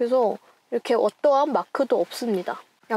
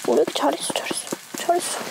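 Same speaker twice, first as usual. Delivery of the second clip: squeaky praising a dog; 5 semitones higher, faster than usual. Real, not acted. Whispered praise to pet.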